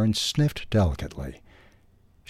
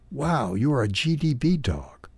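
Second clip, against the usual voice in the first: bright, higher gush of delight; bursting out higher with glee; excited exclaim; 6 semitones higher than usual. A narrator's reading. Betty Sue excitedly spots Martinez's guide dog harness, higher. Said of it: "exclaimed excitedly".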